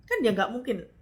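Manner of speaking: usual speaking voice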